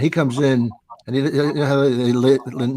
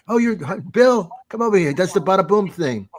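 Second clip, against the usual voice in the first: excited fan; 6 semitones higher than usual. Retold or imitated. Excited fan voiced in a story.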